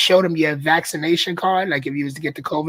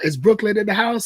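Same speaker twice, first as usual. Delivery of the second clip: pretend crowd yell; 5 semitones higher than usual. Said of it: "you yell to a crowd".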